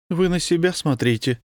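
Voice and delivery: indignant. A narrator's reading. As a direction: snap back in her defence. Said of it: "возмутилась девушка".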